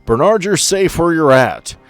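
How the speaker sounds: ordinary talk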